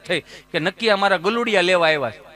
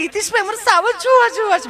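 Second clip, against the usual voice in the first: high, prissy city lady voice, much higher; posh city tourist; 13 semitones higher, 4 dB louder than usual. Retold or imitated. Comedian mimics city tourist asking to see lions, high and prissy. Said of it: "મને કે".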